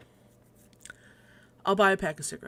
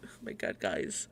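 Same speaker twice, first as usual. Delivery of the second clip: whispered; 11 semitones lower, 8 dB quieter than usual. Real, not acted. Exasperated aside to viewers.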